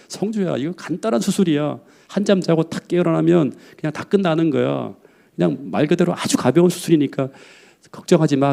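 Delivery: gentle reassurance. Retold or imitated. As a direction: coax him calmly, like a father at a hospital bed. Father reassuring frightened son.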